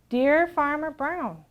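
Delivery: very slow, drawn-out greeting; cows' letter voice. Acted. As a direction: read it like a cow.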